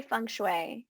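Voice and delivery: "feng shui" said as "fung shway"; American pronunciation. Shown as a demonstration. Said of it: "how do you say it".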